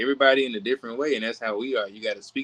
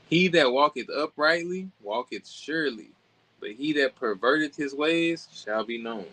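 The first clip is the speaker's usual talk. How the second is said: slow, measured Bible reading; deliberate proclamation of a proverb; scripture reading; 3 semitones higher than usual. Acted. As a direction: read the verse out slowly and formally, pitched up at the start. Reads scripture again.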